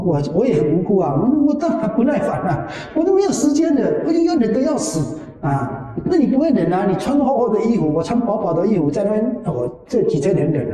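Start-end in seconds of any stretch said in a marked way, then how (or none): 0.1-9.3 higher, laughing while retelling the protest; mock-aggrieved, chuckling as you complain; 我当然不耐烦啊 said higher with a laugh, half-joking grievance; laughing indignation.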